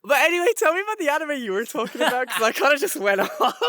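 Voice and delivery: quick, loud, eager rush; real excited chatter. Real, not acted. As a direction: hurry on eagerly, breaking into a laugh. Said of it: "I'm excited to be back".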